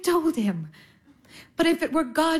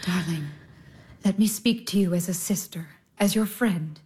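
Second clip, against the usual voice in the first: tender whisper; 6 semitones lower than usual. Acted. Elder sister whispering comfort to sobbing Irina. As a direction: draw her close and whisper gently.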